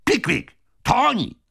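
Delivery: high, loud cry of discovery; old gentleman crying out; excited call. A narrator's reading. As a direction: call out to your companion. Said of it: "zawołał stary gentleman".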